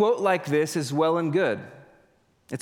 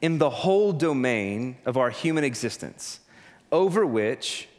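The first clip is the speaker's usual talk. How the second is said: slow solemn quote; slower than usual. Retold or imitated. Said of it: "He says".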